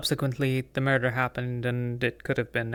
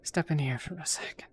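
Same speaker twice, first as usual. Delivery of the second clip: whispered aside; 6 dB quieter than usual. Acted. Slipping away from others.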